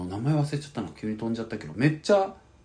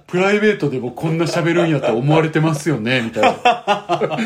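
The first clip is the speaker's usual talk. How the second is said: embarrassed laughing; 4 semitones higher, 7 dB louder than usual. Retold or imitated.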